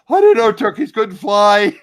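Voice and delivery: loud, high, drawn-out mock dismay; quoted comic outburst. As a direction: imitate a sitcom line with big emphasis. Quoting a comic line from show.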